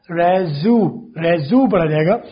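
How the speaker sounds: रेजू with an open re and a short zu; slow syllable demo. Shown as a demonstration. Teacher isolates the syllables रेजू for learners. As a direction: break रेजू out slowly, re-zu. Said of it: "रेज्यूमे नहीं पढ़ा जाता".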